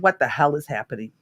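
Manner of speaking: teary client. Retold or imitated. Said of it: "he got teary and he said".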